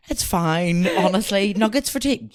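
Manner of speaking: breaking into laughter while playing the parent; mock easygoing parent. Voices worn-out, lenient parents.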